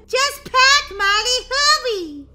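high, loud hurry-up call; urgent shout. Acted. Sister urging Molly to finish packing, loud. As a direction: push her to move now.

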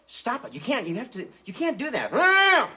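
high squeaky puppet pleading no; shrill little puppet begging. Acted. Puppet dog pleading with ventriloquist, squeaky high protest.

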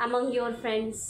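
slow, fading superlative examples; teacher reading superlative examples. Shown as a demonstration. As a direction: read the examples slowly. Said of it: "third में".

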